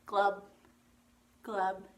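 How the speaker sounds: low-pitched fish glubs. Shown as a demonstration. Teacher revealing the pattern's answer, low fish glubbing. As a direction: drop the pitch for short fish sounds. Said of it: "Did you do this?".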